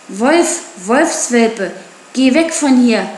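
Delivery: narrator's contained shout of warding off; priest calling out. A narrator's reading. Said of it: "rief der Priester".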